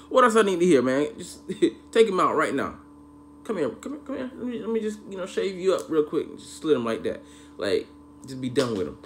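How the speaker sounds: a hammed-up call for violence; mock furious order. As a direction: urge them on, half laughing. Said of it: "I'm like".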